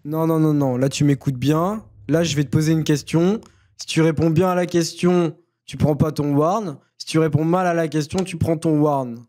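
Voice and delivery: slow, deliberate quizmaster firmness; stern warning. Real, not acted. Moderator threatens a player with a warn, stern and deliberate. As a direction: lay down the rules, weighing each phrase.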